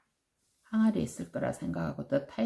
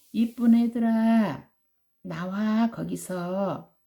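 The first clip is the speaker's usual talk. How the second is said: higher coaxing sweet call; 4 semitones higher, 3 dB louder than usual. Acted. Tiger to children in the well, sweet coaxing. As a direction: lure them out sweetly. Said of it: "부드러운 목소리로 막 재촉을 했어".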